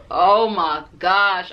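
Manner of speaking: slow, stretched-out groan of relief; a long, relieved "oh my gosh"; drawn-out disbelief. Retold or imitated. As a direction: let it all out once he's gone. After the date walks off.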